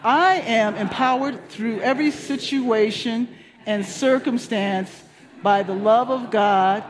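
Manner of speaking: very slow, deliberate reading of the affirmation. Shown as a demonstration. Pastor leading the weekly affirmation, slow and deliberate. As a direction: read it slowly, savoring each word. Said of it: "Please let's read it together".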